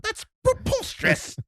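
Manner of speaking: outraged British toff. Pretend. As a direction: play a scandalised old English gent. Mock outraged British gentleman.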